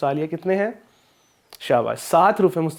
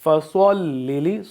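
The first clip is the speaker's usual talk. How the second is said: recited word; much slower than usual. Shown as a demonstration. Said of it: "اب میں تلاوت کروں گا".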